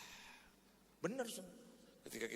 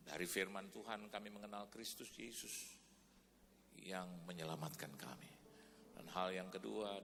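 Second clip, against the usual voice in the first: earnest pastoral prayer voice. Real, not acted. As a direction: lead the church in prayer. Pastor leads closing prayer. (doa pendeta yang khidmat)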